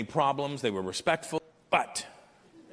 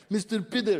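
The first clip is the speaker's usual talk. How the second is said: higher mock Russian accent; 6 semitones higher than usual. He repeats the plumbers' greeting for his friend, mock Russian accent. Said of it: "He goes, what do they say".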